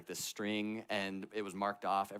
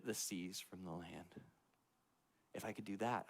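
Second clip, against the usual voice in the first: comforting God voice; 5 dB quieter than usual. Retold or imitated.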